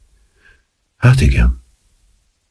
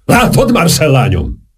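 a hint of an old man's quavering voice, higher; rezgő hangon; 9 semitones higher than usual. A narrator's reading. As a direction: lightly quaver it like a moved old count. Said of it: "mondta Saint-Germain rezgő hangon". (enyhén remegő, magasabb hang)

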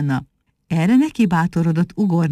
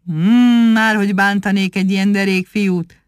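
kindly, reassuring tone; friendly. A narrator's reading. Proud rabbit reassuring the monkey, friendly. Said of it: "mondta barátságosan".

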